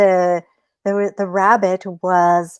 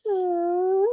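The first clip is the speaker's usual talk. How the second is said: sly hmm; 11 semitones higher, 6 dB quieter than usual. Acted. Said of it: "And the rabbit goes".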